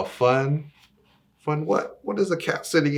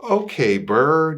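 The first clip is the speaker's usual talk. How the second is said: voiced cat; 4 semitones higher, 6 dB louder than usual. Cat greets bird in story.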